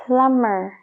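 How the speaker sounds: "plumber" said as plummer; no b sound in "plumber"; silent b in plumber. Shown as a demonstration. Teacher models "plumber" with a silent b. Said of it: "es mer".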